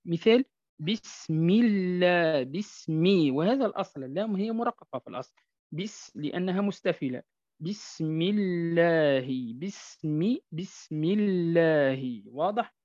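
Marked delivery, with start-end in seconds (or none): 0.0-3.3 بسم الله slow with a light lam in الله; لام مرققة بعد كسرة; thin lam. Shown as a demonstration. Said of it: "وترقق إذا سبقت بكسرة". 7.6-12.2 بسم الله slow with a light lam; thin lam. Shown as a demonstration. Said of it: "وترقق إذا سبقت بكسرة".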